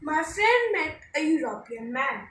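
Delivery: each word read slowly and evenly; slow dictation for students. Shown as a demonstration. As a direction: read out the corrected sentence slowly. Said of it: "So here we will use O".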